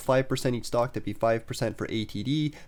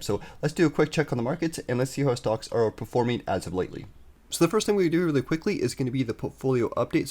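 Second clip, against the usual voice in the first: stuffy, congested voice; talking through a head cold; blocked nose; 2 semitones higher than usual. Real, not acted. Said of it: "my voice is a little bit stuffed up here".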